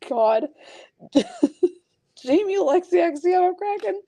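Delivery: high, squeaky real giggles through the words; helpless laughter. Real, not acted. Host reading out cards, unable to stop laughing. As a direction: read on while cracking up. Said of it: "something and I can't stop".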